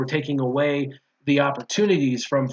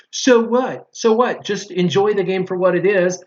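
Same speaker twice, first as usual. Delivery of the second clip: mock dismissive; 3 semitones higher, 3 dB louder than usual. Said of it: "the argument on the other side is".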